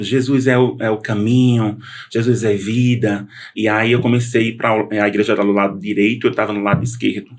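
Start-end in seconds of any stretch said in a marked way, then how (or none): none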